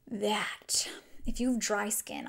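breathy confidential whisper; whispered aside. Real, not acted. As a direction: lean in and whisper the tip. Confiding makeup tip aside.

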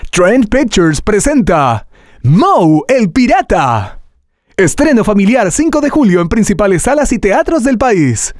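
high, bright, cheerful trailer read; bright family trailer voice. Shown as a demonstration. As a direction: sell fun for the whole family. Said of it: "sacamos la voz hacia afuera, vamos a darle energía, alegría".

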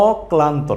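অক্লান্ত with an open অ apart from ক্লান্ত; the mistaken অক্লান্ত, no doubled ক; undoubled pronunciation. Shown as a demonstration. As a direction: say অ, then ক্লান্ত, with a single ক. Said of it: "আসলে এর উচ্চারণটা কিন্তু".

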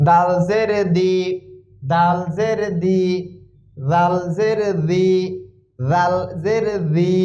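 each syllable said clearly for learners; spelled drill. Shown as a demonstration. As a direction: repeat like a teacher. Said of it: "উচ্চারণের দিকে খেয়াল করতে হবে". (শিক্ষকের মতো স্পষ্ট উচ্চারণ)

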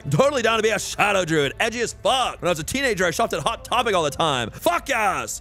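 mock-gushing over a shadow druid; mocking edgy teen. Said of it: "And Kagha's like".

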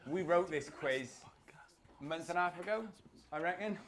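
hushed confession to the room; whispered aside. Real, not acted. Quizmaster admits to the pub crowd how old the quiz is, whispering. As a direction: whisper it like a guilty secret.

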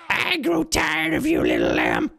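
high, strained villain screech; hammed-up cartoon boss losing patience; changeable boss voice. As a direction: start high and drop at the end. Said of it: "Their voice also changes every time".

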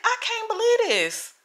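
high, laughing disbelief, replaying the moment; half-laughing at the shock of it; stunned disbelief. Telling viewers about the news, high laughing disbelief. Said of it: "I'm like".

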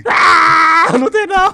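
high whining wail of denial; fake-cry it like a kid; whiny mock crying. Childish "is not" bickering.

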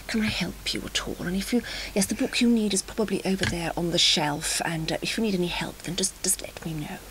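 extremely polite librarian. Retold or imitated. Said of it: "extremely polite".

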